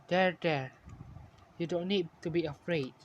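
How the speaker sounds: quiet, tender comfort. A narrator's reading. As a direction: soothe a frightened friend gently. Friends comfort the crying dreamer.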